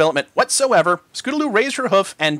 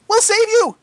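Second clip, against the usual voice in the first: urgent; 5 dB louder, slower than usual. A narrator's reading. Frightened rescue cry.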